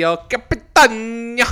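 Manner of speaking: "Capitan" drawn out in hammed-up Italian; mock Italian accent. Telling his Luca viewing plans, mock Italian accent. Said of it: "Giada doing an Italian accent".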